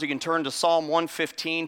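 ordinary delivery

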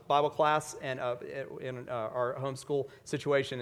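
normal talking voice

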